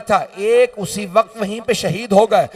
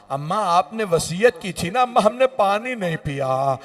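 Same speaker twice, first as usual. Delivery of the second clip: tearful farewell; 4 semitones lower than usual. Acted. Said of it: "रो के कहा".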